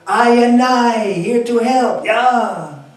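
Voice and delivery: loud, high Jamaican Rasta voice; Rastafari accent. Acted. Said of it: "my Rastafari accent".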